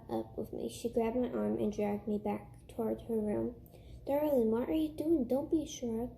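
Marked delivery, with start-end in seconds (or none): 4.1-6.1 lightly voiced, bad French accent, pitch lifted; fake French accent. Little sister playing salon owner, in a bad fake French accent. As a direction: play a kid faking French, a touch higher. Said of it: "in an awful fake French accent".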